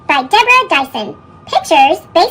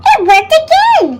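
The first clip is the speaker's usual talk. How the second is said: high, bright surprise; delighted; 10 semitones higher, 5 dB louder than usual. A narrator's reading. To the listening child, a high delighted "it worked". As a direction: pop it up like good news. Kindness succeeds again.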